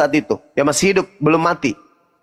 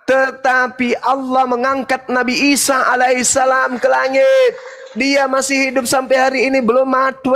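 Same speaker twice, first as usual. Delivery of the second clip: higher insistent preaching claim; forceful declaration; 6 semitones higher than usual. Real, not acted. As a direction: declare it with conviction.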